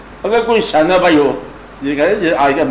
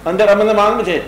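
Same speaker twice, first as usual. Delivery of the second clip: ordinary talk, nothing marked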